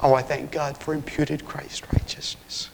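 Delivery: reverent, whispery thanksgiving; near-whispered, heartfelt thanks to God; hushed gratitude. Real, not acted. Preacher thanking God for righteousness, in a hushed, reverent voice.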